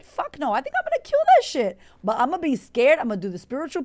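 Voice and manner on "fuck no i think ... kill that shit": squealed high and fast; excited boast. Real, not acted. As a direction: squeal it out with glee. Hyping herself about TED talk.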